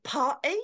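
"Party?" as a questioning, rising echo; mum correcting speech. Acted. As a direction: query the word "Party?" in disapproval. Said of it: "trying to educate me in speaking proper".

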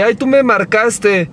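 slow drawn-out teasing; imitating Mary. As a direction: drag it out like a flirty tease. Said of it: "le contestaba así de".

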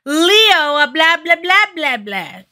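high, loud blah-blah singsong; exaggerated, loud nonsense quote; mocking rant. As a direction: rattle off a high-pitched mock tirade, dropping at the end. Mock-acting what Drew isn't saying.

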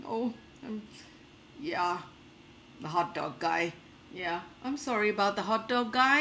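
lightly voiced monster, halting and sheepish; Godzilla. Godzilla owning up about the hot dog guy, mildly sheepish. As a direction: hesitate between phrases, a touch apologetic. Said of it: "I have to become Godzilla".

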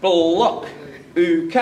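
BLOCK drawn into buh-lock, UKE into oo-kay; two syllables. Shown as a demonstration. Teacher showing students the fault, BLOCK and UKE broken in two. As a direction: split BLOCK and UKE into two beats each. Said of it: "We're not doing it in two syllables".

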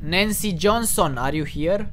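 loud call with a questioning rise; calling to a ghost. Real, not acted. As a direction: summon the spirit, slow and loud. (chemare tare, întrebătoare, către o fantomă)

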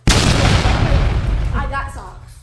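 slow breathy whisper. Pretend. Whispered rap ad-lib.

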